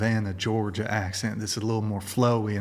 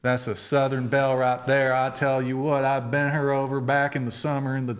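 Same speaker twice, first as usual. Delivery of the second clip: put-on Southern accent. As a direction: tell a tall tale in a mild hick Southern voice. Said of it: "What's your favorite accent to do?".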